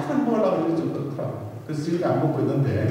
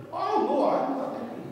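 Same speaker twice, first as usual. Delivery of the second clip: high, exasperated back-and-forth; excited mock denial; 8 semitones higher, much slower than usual. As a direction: protest much higher than usual. Acted quarrel, denial and accusation. (높은 목소리로 "아니야, 화 안 났어"라고 흥분해 항의하듯)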